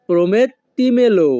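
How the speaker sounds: very slow, every syllable drawn out; slow teaching demo. Shown as a demonstration. Teacher to viewers, slow clear model word. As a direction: stretch the word for learners. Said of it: "তখন আমাদেরকে বলতে হবে".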